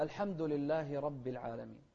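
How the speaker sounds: لله ending in a clear -hi; clear kasra. Shown as a demonstration. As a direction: sound the short i closing لله. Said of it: "نفس الشيء في كسرة". (لله بكسرة واضحة على الهاء)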